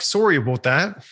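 lightly put-on Canadian accent; a hint of stereotypical Canadian. Shown as a demonstration. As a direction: say it with a mock Canadian lilt. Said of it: "can't even do the Canadian accent".

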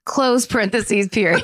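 dictating. Shown as a demonstration. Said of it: "in parentheses".

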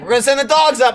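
high-pitched mock police yell. Cop threatening whoever is in the attic, mock yell. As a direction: imitate a cop calling up the ladder. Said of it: "yelling up the ladder".

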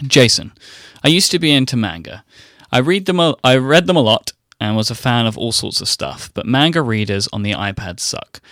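a light, hammed-up Italian accent on the read-out question; mock Italian accent. Host reading Federico's question aloud in a mild mock Italian accent. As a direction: read the listener's note as a lightly faked Italian. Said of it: "the worst Italian accent I have ever heard".

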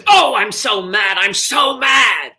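high, loud, slow mock-furious diva wail; exaggerated outraged grande dame, drawn out; Elaine Stritch impression. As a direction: belt it like an aging Broadway legend in a huff. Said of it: "And she says".

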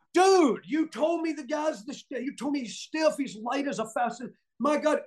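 high, amazed retelling of his disbelief; laughing disbelief after an easy match; incredulous outburst. Retold or imitated. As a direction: blurt it out in happy astonishment. Retelling his stunned reaction backstage.

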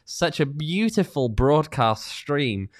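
slow, dripping sarcasm; mock praise, drawn out slowly; sarcastic. Real, not acted. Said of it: "He's being facetious and sarcastic".

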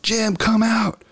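high, drawn-out call; yelling for the friend to come outside; slow yell. Retold or imitated. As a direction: holler it slowly up at the house. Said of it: "and I yell".

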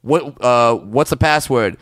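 whispering a secret password. Retold or imitated. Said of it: "member berry club, they go".

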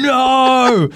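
high desperate shout of no; retold frantic yell. Owner chasing runaway horse down the road, frantic shout. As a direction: yell it after a bolting horse. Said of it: "I was running down the road swearing".

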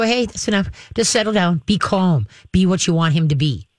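calm, even "Hey, that's enough" to a restless dog. Shown as a demonstration. Dog trainer showing an owner how to calm the dog at night, in a calm voice. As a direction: settle him with a steady, easy voice. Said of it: "Just in a calm voice".

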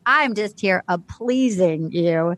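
imitating Dale, slow and low; smooth Dale. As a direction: ooze it like a smooth charmer. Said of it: "He said".

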